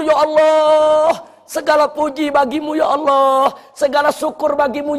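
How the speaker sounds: prayer of thanks. Acted. Doa syukur yang diperagakan.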